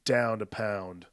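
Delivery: soft, understated mock-suave smolder; cool smolder. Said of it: "It's Cary Grant smolder".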